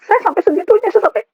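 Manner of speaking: high, upset voice; anguished, unfinished recollection; real tearful distress. Real, not acted. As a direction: start high and break off, overcome. Choking up while recalling her despair.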